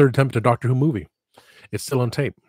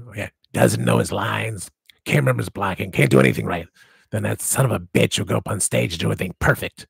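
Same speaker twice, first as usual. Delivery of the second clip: imitating gruff director. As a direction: mimic the old director grumbling about his actor. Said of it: "He said".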